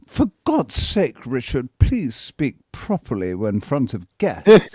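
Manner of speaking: mock his prim grandmother scolding; imitating prim nan. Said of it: "she's saying to me".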